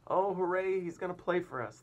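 high, loud cheering; delighted group cheer; excited cry. Acted. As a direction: cheer like thrilled children. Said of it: "they cried".

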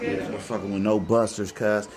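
laid-back West Coast accent. Shown as a demonstration. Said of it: "that's my West Coast accent".

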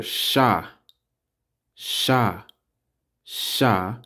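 slow syllable drill, sha; teacher drilling the syllable sha. Shown as a demonstration. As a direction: sound out sha, sha, sha. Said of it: "S H A, that's Shah".

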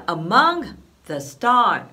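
"among the stars" stretched slowly; slow lyric. Shown as a demonstration. Teacher introducing the next lyric, slow. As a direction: say it slowly and carefully. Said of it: "なんですけど".

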